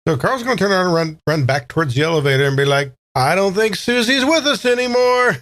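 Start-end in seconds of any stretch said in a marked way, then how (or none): 3.1-5.4 high, alarmed quip while running; high-pitched nervous Carl line; panicked Carl. Acted. Player voices Carl fleeing.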